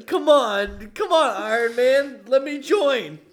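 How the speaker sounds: high, loud pleading duck voice. Acted. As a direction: beg like a cartoon duck. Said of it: "your line is".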